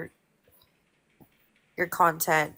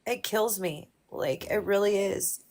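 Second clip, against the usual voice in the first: fighting back tears as she speaks; real grief breaking through; choked up; 3 semitones higher than usual. Real, not acted. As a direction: voice pushed up with emotion. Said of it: "I don't know why I'm getting emotional".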